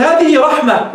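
رحمة ended on h in place of t; pausal ha. Shown as a demonstration. Teacher shows the stop to students, ta turned to ha. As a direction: stop on رحمة, turning the final ة into h. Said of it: "وقفت، قلبت التاء هاء".

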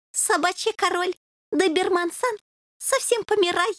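high, sorrowful broken Russian; sad. A narrator's reading. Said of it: "печально ответил Суслик". (печальный голос Суслика)

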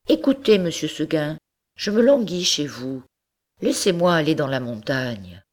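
a hint of a young goat asking gently; lightly voiced goat pleading. Goat begs monsieur Seguin to let her go, pleading. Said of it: "lui dit dans son patois".

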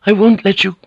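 high tearful refusal; weeping maid. A narrator's reading. Maid refuses to let her mistress go, tearful. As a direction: protest as if in tears. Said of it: "the maid wept".

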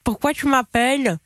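pen in teeth. Real, not acted. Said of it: "avec un stylo dans la bouche".

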